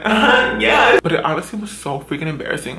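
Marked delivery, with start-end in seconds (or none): 0.0-1.0 higher-pitched mock agreement; playing along, embarrassed. Teen laughed at by everybody, playing along in a high voice. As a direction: pipe up as if in on the joke. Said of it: "so I just was like".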